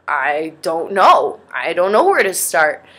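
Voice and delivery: slow, drawn-out helpless sigh of words; lost and helpless. Retold or imitated. Stuck, doesn't know where to start.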